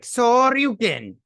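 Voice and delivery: high, loud, drawn-out battle cry; attack shout. Retold or imitated. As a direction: holler it like a finishing move. Acted game attack shout.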